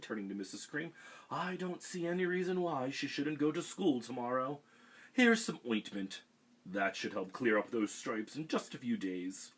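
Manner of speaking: a breezy doctor wrapping up; doctor reassuring the mother, bright and loud; cheery doctor. Acted. Doctor voiced in story.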